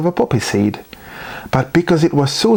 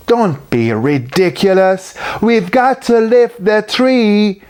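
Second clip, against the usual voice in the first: growled; 7 semitones higher, slower than usual. A narrator's reading. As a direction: growl him down. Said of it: "growled Muckle Mackie".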